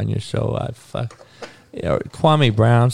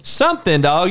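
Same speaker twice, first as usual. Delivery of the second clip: mock yell; 6 semitones higher than usual. Continues mock yelling at players.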